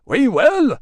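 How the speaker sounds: loud high cheer; crowd shout. Acted. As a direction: shout back yes.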